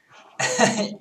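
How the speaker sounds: a sharp high burst of laughter; loud self-amused laugh; sudden high laugh. Real, not acted. Laughing at sounding British.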